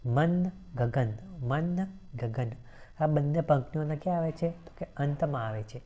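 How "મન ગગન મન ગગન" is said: મન ગગન said very slowly, each word stretched; slow stressed rhyme words. Shown as a demonstration. Teacher showing students the rhyming words મન ગગન, slowly stretched. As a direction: draw out મન and ગગન to show the rhyme. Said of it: "એક છે આ મન અને બીજું છે ગગન".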